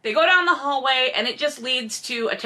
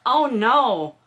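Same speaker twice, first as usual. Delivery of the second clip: normal talking voice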